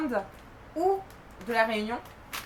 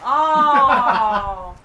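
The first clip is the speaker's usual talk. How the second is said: laughing out loud; 10 dB louder, much slower than usual. Real, not acted. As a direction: laugh through the words. Laughs at the joke.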